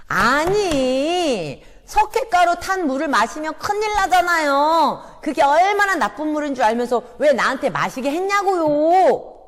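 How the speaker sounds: loud, high complaining shout with a sob; accusing shout. Acted. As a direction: wail the accusation at the teacher. Sunder repeats accusation.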